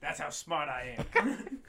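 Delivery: slow, laughing smug boast. Pretend. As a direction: drag it out through a laugh. Mock boast repeated, laughing.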